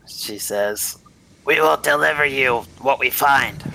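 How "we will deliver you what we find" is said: lightly voiced Sherry, raised pitch. Woman answers the group's leader, lightly voiced and higher. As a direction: play Sherry a little higher, firmly stated.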